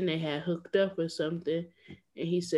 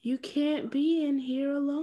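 exaggerated cartoon intonation; 7 semitones higher than usual. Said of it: "Why did you speak like that".

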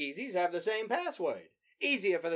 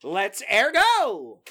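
police chief impression; 3 semitones higher, 7 dB louder, much slower than usual. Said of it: "As our illustrious police chief would say".

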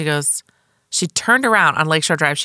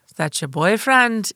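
slower, higher Jamaican cabbie attempt slipping into Irish; botched Jamaican accent; 5 semitones higher than usual. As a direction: imitate a Jamaican cabbie, badly. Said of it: "she was Jamaican ... I'm doing an Irish".

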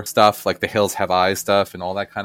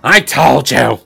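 louder, curt smug retort; smug psychic; 4 semitones higher, 8 dB louder, slower than usual. Retold or imitated. Host mimics the psychic smugly reminding, louder. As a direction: deliver it dry and to the point. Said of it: "Where Sylvia Brown was like".

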